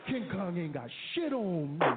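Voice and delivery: put-on cocky practice run of a black American accent; rehearsing black American talk on the plane, hammed up; practiced black American accent.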